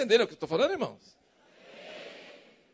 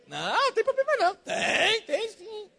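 mock congregation answers; 6 semitones higher, 3 dB quieter than usual. Voicing congregation's hesitant answers.

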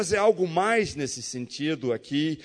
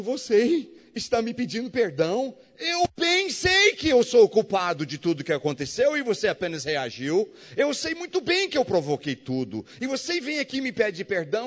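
tearful friend; 5 semitones higher than usual. Retold or imitated. Crying friend answers.

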